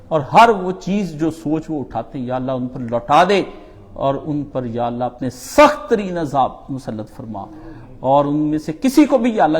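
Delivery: congregational dua building in force; fervent supplication. Real, not acted. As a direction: plead with God line by line, leaning on the key words. Leads supplication against the homeland's enemies. (پرجوش اجتماعی دعا)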